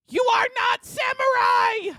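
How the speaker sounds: high, shouted fake samurai yell; mock samurai scream. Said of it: "Screams as he's hitting himself".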